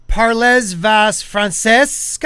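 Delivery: slow, drawn-out Parlez vas Francesca with French badly mangled. Real, not acted. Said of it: "is that how that's spelled?".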